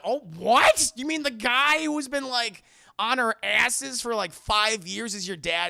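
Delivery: high, loud incredulous outcry; acted shocked outburst. Leia hearing who Luke's dad is, incredulous. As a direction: blurt it out in comic disbelief.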